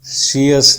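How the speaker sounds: "सीएस" split in two, see-us; two-syllable wrong ending. Shown as a demonstration. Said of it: "नहीं है". ("सीएस" दो अक्षरों में, सी-अस)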